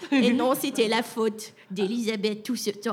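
slow sneaky little goblin. Acted. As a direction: blame the other like a small goblin. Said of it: "me prendre une petite voix de gobelin".

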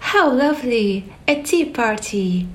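overjoyed at the party; delighted exclaim. Acted. Alice finding the tea party, thrilled. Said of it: "she threw".

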